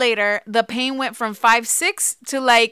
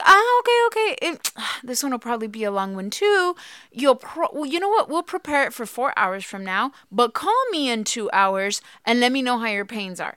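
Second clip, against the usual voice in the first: midwife on the phone. Retold or imitated. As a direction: mimic the midwife brushing it off. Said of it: "And she's like".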